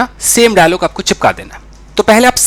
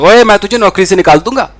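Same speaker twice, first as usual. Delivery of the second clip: angry boss; 4 dB louder than usual. Retold or imitated. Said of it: "खुद ही boss बन करके और वो एक्टिंग कर रहा था".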